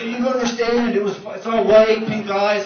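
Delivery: high, giddy excitement; excited. Retold or imitated. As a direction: gush like a thrilled kid. Excited friend quoted.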